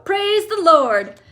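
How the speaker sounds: high, loud and slow exultant cry; joyful yell. Acted. Grandpa Joe rejoicing, high loud slow cry. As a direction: stretch it out in triumph. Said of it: "yelled Grandpa Joe".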